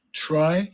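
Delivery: "Try" alone as the first syllable; sounded-out syllable. Shown as a demonstration. Teacher sounding out a word, "Try" as a separate syllable. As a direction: give "Try" by itself, fully voiced. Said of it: "how it sounds".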